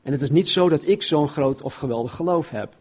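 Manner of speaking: normal talking voice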